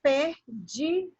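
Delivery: "perdidos" split into per, di, dos; teacher leading "perdidos" piece by piece; syllable by syllable. Shown as a demonstration. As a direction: slowly sound out "perdidos" with gaps between syllables. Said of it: "Vamos pronunciar juntos a palavra perdidos".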